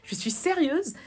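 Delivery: emphatic, indignant explaining, pitch jumping up; exasperated appeal to be taken seriously; retold annoyance. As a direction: re-enact spelling it out, fed up. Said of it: "Ça m'a énervé".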